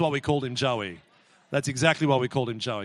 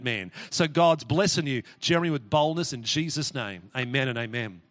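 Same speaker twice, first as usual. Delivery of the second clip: prayer. Acted. Prays over Jeremy.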